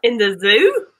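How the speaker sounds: Aussie detective asking a question; Australian accent with a rising question; put-on Australian detective voice. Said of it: "time in that Australian accent".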